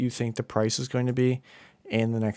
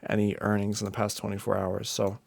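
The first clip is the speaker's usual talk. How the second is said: sleepy, worn-out delivery; tired. Real, not acted. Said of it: "Sorry if I sound, like, a little tired".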